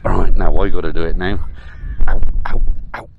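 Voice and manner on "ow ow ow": sharp little yelps of pain. Real, not acted. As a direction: wince out each ow. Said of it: "'Cause I sat on a rock".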